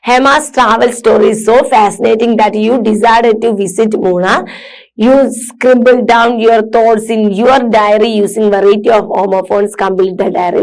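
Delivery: slow read-aloud. Acted. Teacher reads textbook task.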